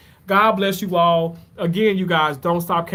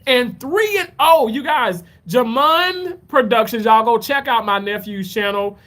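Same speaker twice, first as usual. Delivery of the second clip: hyped announcement; 5 semitones higher than usual. Real, not acted. Hyping nephew's football record.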